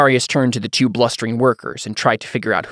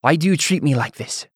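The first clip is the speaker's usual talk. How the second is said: put-on raised pitch, hurt Taconi-accented question; thick Taconi accent; 5 semitones higher than usual. A narrator's reading. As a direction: plead in a Taconi accent, confused and angry. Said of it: "sounding as confused as he was angry".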